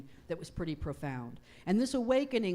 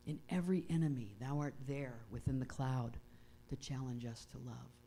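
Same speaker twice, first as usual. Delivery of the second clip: softer, lower repeat of a prayer line; hushed, reflective prayer line; prayer reading; 4 semitones lower, 5 dB quieter than usual. Acted. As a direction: let the line sink in quietly.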